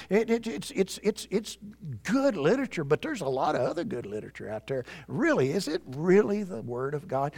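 soft, doubting tempter's voice; hushed, needling insinuation; whispering. Acted. Preacher as Satan casting doubt on God's Word, whispering. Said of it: "You see, he's whispering".

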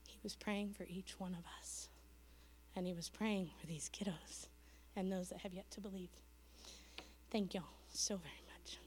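hushed, near-voiceless closing words; soft whisper. Real, not acted. Missionary closing her testimony to the congregation, soft whisper. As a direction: let it fall to a reverent whisper.

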